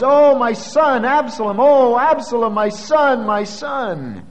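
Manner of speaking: David crying aloud over his dead son, dropping off at the last words; loud anguished cry. A narrator's reading. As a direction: cry out a father's unbearable grief. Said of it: "he cried with a loud voice".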